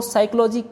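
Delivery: साइकोलॉजी starting straight on the S; no P sound at the start of साइकोलॉजी; silent P. Shown as a demonstration. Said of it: "इस word में पी silent रहेगा".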